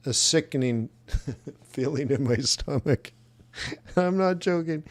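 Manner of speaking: laughing through disbelief; real queasy laughter. Real, not acted. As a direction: let small laughs break into the words. Laughing over a sickening trade plan.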